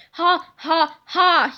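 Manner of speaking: loud, slow mock-evil ha ha ha; hammed-up giant's laugh; villain laugh. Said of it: "he laughed".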